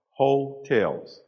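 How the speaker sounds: HO-tels, the first syllable "hotels" leaned on hard; emphasis on first syllable. Shown as a demonstration. Telling the audience about cheap hotels, first syllable stressed. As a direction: hit the HO in "hotels". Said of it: "I did put a special emphasis on that first syllable".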